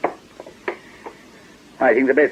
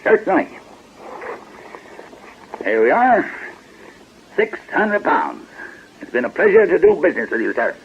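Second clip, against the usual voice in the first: fake American accent. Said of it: "what's happened to your American accent".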